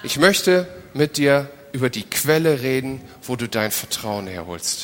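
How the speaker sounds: calm, hushed voice of God; gentle voice of God. Retold or imitated. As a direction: speak it as a tender divine word. Interpreter voices God speaking.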